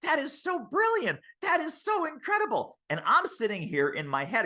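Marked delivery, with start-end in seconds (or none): 0.0-2.8 high, gushing amazement; very high mock gushing; amazed client. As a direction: gush like a wowed client. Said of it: "and they're like".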